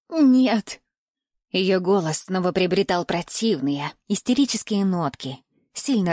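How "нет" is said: higher, louder frightened woman's no; a captive woman's desperate no. A narrator's reading. Bound woman refusing her captor, frightened and higher.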